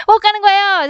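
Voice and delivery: high burst of laughter into the words; amused, laugh spilling into speech. Real, not acted. Laughs at own PC bang slip.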